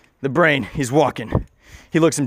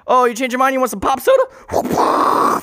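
high, silly host voice; high, whimsical candy-seller; Wonka elevator; 9 semitones higher than usual. Acted. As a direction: offer it in a high cartoon voice. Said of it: "like a Wonka e-, elevator".

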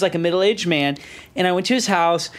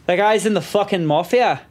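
put-on shaky-aim Scottish accent, drifting Irish; attempted Scottish accent. Scottish friend revealing mafia secret, attempted Scottish accent. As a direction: try Scottish and land nearer Irish. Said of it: "That was more Irish".

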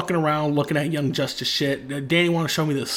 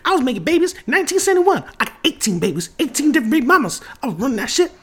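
hammed-up old man bragging; 11 semitones higher, faster than usual. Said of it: "this old nigga voice".

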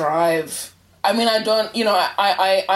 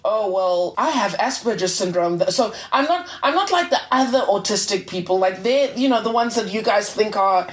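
smug superior attitude. Retold or imitated. Podcast host mocking online Asperger's posts, smug superior tone. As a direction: play the know-it-all who thinks they're above the rest. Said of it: "there was this attitude of".

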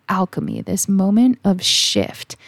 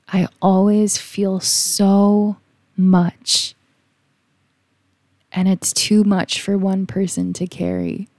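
retold crying; slower than usual. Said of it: "started to bawl my eyes out, like, crying hysterically".

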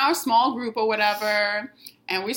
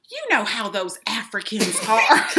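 mock Southern voice with a laugh; lightly hammed-up Southern impression; Southern accent. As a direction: imitate her Southern accent, amused. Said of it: "that's what she sounded like to me".

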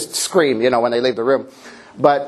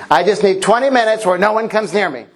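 weary mom; 5 semitones higher than usual. Retold or imitated. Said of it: "she says".

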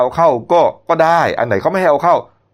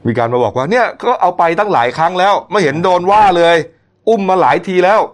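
mock indignant complaint; 6 semitones higher than usual. Mocking the auntie's complaint.

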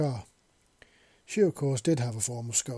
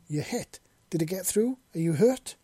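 rising, louder burst of worried questions; alarmed exclaim; 6 semitones higher, 6 dB louder than usual. Acted. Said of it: "she exclaimed".

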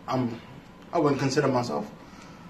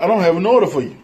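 mock Brooklyn clerk; much faster than usual. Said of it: "your fucking shitty ass Brooklyn accent".

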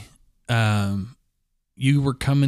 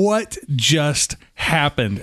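slow, drawn-out disbelief; stunned disbelief; much slower than usual. Retold or imitated. Speaker recalls being laughed at by everyone, stunned disbelief. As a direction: stretch each word in mock bewilderment.

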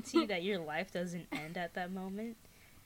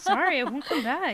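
higher put-on grumpy creature voice; a sulky monster giving up; annoyed monster; 5 semitones higher, 8 dB louder than usual. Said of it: "it'd be like".

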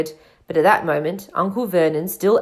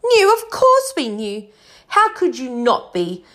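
high, scornful outburst easing off; acted aunt's shrill indignation; shrieking; 5 semitones higher, 5 dB louder than usual. A narrator's reading. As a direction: start on a high shriek, then argue on. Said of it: "shrieked Aunt Petunia suddenly".

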